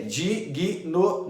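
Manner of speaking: "Digno" chopped into di-gui-no; three separate beats, "di, gui, no", for "Digno"; wrong three-way split. Shown as a demonstration. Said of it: "não".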